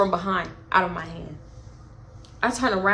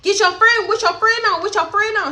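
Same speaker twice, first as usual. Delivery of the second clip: imitating the girl; 9 semitones higher than usual. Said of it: "So she was like".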